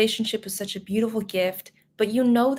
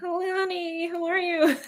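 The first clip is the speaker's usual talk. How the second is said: put-on high, elderly old granny voice; 8 semitones higher than usual. Greeting someone by name, the speaker slips into an old granny voice. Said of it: "I sound like an old granny".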